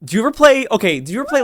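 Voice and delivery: high, loud squeezed-throat voice. Shown as a demonstration. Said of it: "you squeeze and twist".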